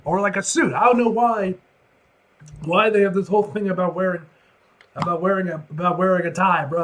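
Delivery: high, loud disbelieving rant; incredulous rant. Real, not acted. Reader rants loudly at the page about Jonah's niceness. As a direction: rant like it's an outrage.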